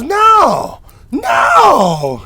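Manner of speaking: very high drawn-out shouts; yelling manager. Retold or imitated. Manager refusing the kid's double charge, hammed-up yelling. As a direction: bellow it like an outraged boss. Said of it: "started yelling at him".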